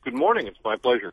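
lightly chipper morning greeting, lifted at the start. Real, not acted. Guest thanking the radio host for having him on, chipper. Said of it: "don't you sound chipper".

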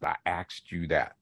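"asked" pronounced as axed, with ks; overemphasized dialect form. Retold or imitated. Linguist voicing younger proud dialect speakers, "asked" pronounced axed. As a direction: lean on "asked", saying it axed with k before s. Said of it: "they almost overemphasized".

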